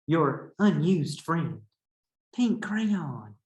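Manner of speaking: lightly voiced sulky crayon reading her letter; a hint of an aggrieved little crayon; pink crayon's letter. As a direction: read it as a hurt, pleading crayon. Teacher reads pink crayon's letter.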